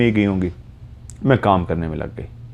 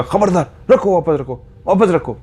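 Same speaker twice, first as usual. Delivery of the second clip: much higher, alarmed "put it back"; mother snaps at daughter holding a knife; sharp warning; 10 semitones higher than usual. Retold or imitated. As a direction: stop the child grabbing the knife. Child picks up a knife.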